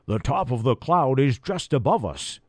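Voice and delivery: lightly quacky duck voice; quacking duck voice. Acted. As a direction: talk like a duck. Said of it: "the duck quacked".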